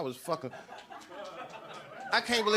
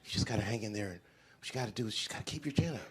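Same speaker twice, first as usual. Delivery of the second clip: mock advice giver; 10 semitones lower, 12 dB quieter than usual. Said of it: "So they be saying stupid".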